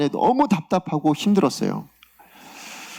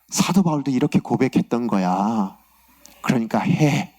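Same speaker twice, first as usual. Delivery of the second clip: low, settled answer as God; God's gentle conclusion; 6 semitones lower than usual. Retold or imitated. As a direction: come down from the climax to a low command. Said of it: "이렇게 얘기하시는 거예요".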